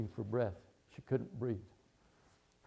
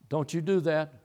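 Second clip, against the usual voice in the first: stern mother; 3 semitones higher, 5 dB louder than usual. Retold or imitated. Mother's scolding repeated.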